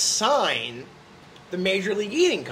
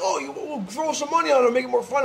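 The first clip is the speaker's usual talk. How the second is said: mock casual friend; 6 semitones higher, faster than usual. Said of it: "people are like".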